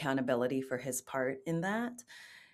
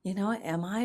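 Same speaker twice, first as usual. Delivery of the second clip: inner doubt; 5 semitones higher than usual. Retold or imitated. Quoting her inner doubt.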